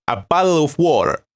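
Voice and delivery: a hint of a British accent on "A bottle of water"; lightly put-on London English, teaching the chat; mock British accent. Shown as a demonstration. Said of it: "Let's practice some British English".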